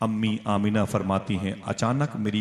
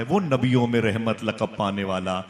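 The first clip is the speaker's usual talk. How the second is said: recited verse; 4 dB louder than usual. Acted. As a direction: recite the couplets with force. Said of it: "Altaf Hussain हाली कहता है". (शायराना अंदाज़ में ज़ोरदार पाठ)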